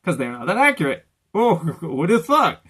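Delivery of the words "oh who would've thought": laughing, louder sarcastic exclamation; mock surprise. Real, not acted. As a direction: feign shock with a laugh, pitched up. Sarcastic aside about inaccurate subtitles.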